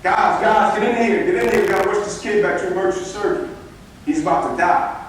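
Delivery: mock yell rushing the staff in; retold doctor's scream. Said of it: "this guy screaming".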